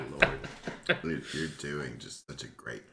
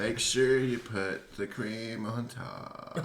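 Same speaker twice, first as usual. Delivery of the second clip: put-on white girl order; 7 semitones higher, slower than usual. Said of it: "The like in the middle of every order".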